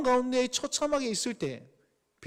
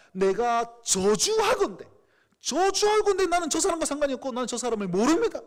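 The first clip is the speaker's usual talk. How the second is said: cursing denial; 4 semitones higher, 4 dB louder than usual. Retold or imitated. Peter denying Jesus to the bystanders, loud oath. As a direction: swear it out, denying him hard. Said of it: "예수님을 저주하면서 세 번을 부인합니다".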